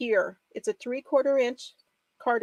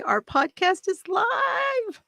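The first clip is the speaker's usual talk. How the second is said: high, drawn-out joyful shout, slowed right down; excited shout; 9 semitones higher, much slower than usual. Real, not acted. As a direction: shout the news out slow and high with delight. Announcing podcast is live.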